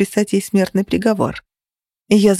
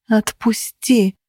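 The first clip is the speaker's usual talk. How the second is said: through gritted teeth; 3 semitones higher, much slower than usual. A narrator's reading. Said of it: "процедила я".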